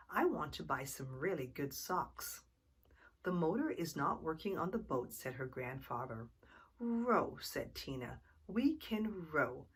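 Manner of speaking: lively storybook reading voice; reading to children. A narrator's reading. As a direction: read it like a bedtime story for kids. Reading picture book to children.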